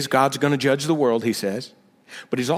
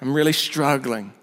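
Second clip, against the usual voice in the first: whiny struggler. Retold or imitated. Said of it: "that could be a guy speaking too".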